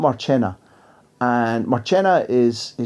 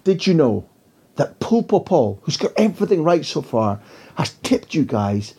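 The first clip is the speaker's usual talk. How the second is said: a hint of a sharp, cutting reporter, higher; lightly voiced piercing question from the back, pitched up; razor voice; 5 semitones higher than usual. Mexican journalist calling her question from the back, lightly razor-edged. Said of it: "she's got a razor voice".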